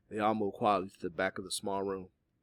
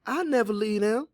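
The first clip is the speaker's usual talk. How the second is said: higher, louder blurt; impulsive, raised-pitch outburst; 13 semitones higher, 7 dB louder than usual. A narrator's reading. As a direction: blurt it out without thinking. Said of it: "Polly blurted before she could even think".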